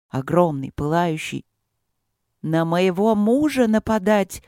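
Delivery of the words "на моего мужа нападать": furious yell. Acted. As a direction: rage at the spirit slowly. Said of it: "в бешенстве орала королева".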